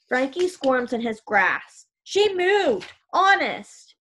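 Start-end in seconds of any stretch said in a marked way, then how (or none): 2.0-4.0 put-on high protesting kid voice; pleading boy. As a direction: insist you're telling the truth, lightly voiced.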